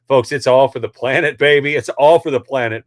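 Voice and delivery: mock the excuse with a loud jeer; sarcastic mockery.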